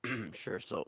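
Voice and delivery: hoarse, sick, losing his voice; rough sick voice, voice nearly gone. Real, not acted. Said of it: "I'm sick and I've lost my voice".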